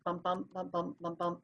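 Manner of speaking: "bump BUMP" in weak-strong pairs; iambic heartbeat. Shown as a demonstration. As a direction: beat "bump, bump" out like a pulse. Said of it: "five times that that iambic heartbeat".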